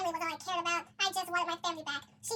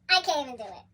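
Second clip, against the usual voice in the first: laughing; 2 semitones lower, 6 dB louder than usual. Real, not acted. Laughing at the twist.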